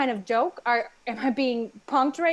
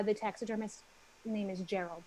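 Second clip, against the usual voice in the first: whispering; 4 semitones lower, 9 dB quieter than usual. Acted. Secret taxidermist name.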